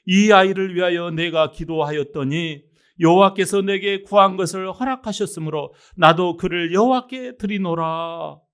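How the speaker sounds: firm, declaimed Bible verse; formal proclamation from the pulpit; scripture reading. Acted. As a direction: read the verse out solemnly, stretching the ending. Reads scripture aloud to congregation.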